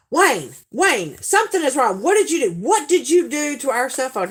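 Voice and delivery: high, urgent call for help; hammed-up accusing alarm, pitched high; mock panic. Storyteller phones Wayne about the broken phone, mock panic.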